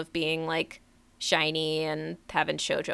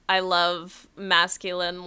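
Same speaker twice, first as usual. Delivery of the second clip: ordinary talk, nothing marked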